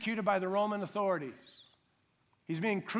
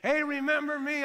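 higher, louder, brash self-promoting call; mock cocky plea; 9 semitones higher, 6 dB louder than usual. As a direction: play a smug churchgoer showing off. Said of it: "He didn't say".

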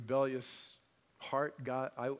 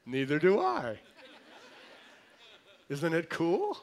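laughing; 3 semitones higher, 7 dB louder than usual. Real, not acted. Pastor laughs at the mystery.

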